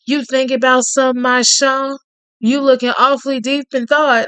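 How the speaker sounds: lightly voiced Cajun man. Reading Tate's lines to the listener in a lightly voiced Cajun charmer's tone.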